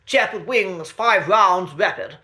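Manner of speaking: a hint of a clipped British officer giving an order; clipped military officer. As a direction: quote the Brigadier's line as a crisp army command. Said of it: "his famous line from the story The Demons".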